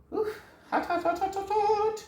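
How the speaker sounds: high yelps at hot chicken; real yelps of burnt fingers; hot hands. Real, not acted. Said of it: "I'm gonna do the hot dance right now".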